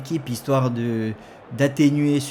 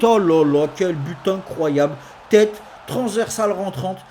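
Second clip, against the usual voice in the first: excited sports commentary; 3 semitones higher than usual. Acted. Goal conceded in commentary.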